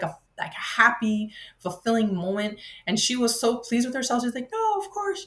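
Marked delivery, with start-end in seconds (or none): 4.5-5.3 mimicking the helper. Helper's reply, much higher.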